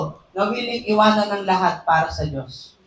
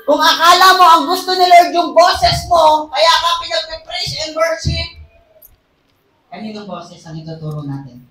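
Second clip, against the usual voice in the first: louder and higher, building to a shout; preaching at full force; 6 semitones higher, 6 dB louder than usual. Acted. Preacher correcting the church about tithes, shouting. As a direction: hammer the point home to the crowd.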